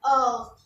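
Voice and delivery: ऑख with a throaty French r; French word heures. Shown as a demonstration. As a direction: say ऑख from the back of the throat. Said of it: "बोलते हैं हम ऑख". (French उच्चारण में ऑख)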